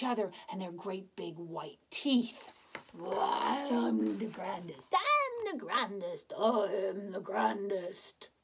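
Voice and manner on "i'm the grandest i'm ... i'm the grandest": slow, drawn-out chant; boastful tigers. Acted. Tigers fighting, each boasting.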